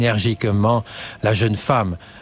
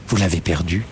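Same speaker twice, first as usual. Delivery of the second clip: gentle pity; 5 semitones lower, faster than usual. A narrator's reading. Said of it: "doucement, avec commisération".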